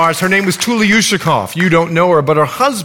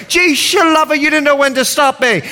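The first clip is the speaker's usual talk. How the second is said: high-pitched Bahamian granny exclaiming; Bahamian accent; 10 semitones higher than usual. Retold or imitated. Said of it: "is a vernacular for".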